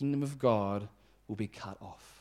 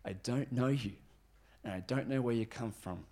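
soft, unyielding refusal; relentless; 2 semitones lower, 7 dB quieter than usual. Acted. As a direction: quietly shut them out, giving no ground. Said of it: "And yet he's relentless".

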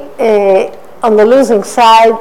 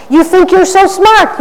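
high sneering taunt; mock a smug put-down; 7 semitones higher than usual. Mocking a smug man with a high sneer.

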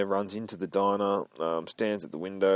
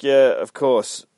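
sarcastic drawn-out yeah; 6 semitones higher, 10 dB louder, slower than usual. Acted. Sarcastic reply to question.

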